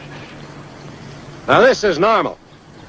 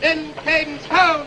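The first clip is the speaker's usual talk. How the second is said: cadence call; 11 semitones higher, 4 dB quieter than usual. Acted. Drill sergeant calling cadence.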